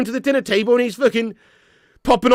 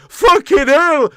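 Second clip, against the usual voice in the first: loud, slow, stretched-out "Fucking hell!"; drawn-out exclamation; 8 semitones higher, 9 dB louder, much slower than usual. Retold or imitated. Streamer replaying his own reaction in the documentary, stretched loud. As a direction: drag the curse out in dismay. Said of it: "it's me going".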